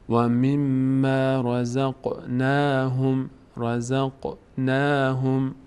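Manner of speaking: drawn-out Quranic chant, syllable by syllable; slow recitation. Shown as a demonstration. Teacher recites slowly for students, chanting. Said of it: "teacher demonstrates Quran recitation".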